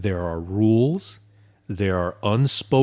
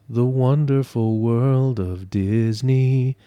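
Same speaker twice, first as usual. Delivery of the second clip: mock slogan; slower than usual. Mock slogan before the letdown.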